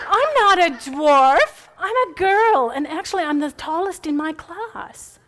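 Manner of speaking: put-on high, loud, slow British accent, laughing; imitated British accent. Granddaughter answering as Lucy in British accent. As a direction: play the little girl's proud British-accent reply. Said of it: "Hayden said it with the British accent".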